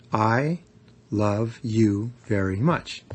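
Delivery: "I" set apart, then a pause; stress on I. Shown as a demonstration. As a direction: lean on "I", then slowly finish "love you very much". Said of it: "putting the emphasis on any one".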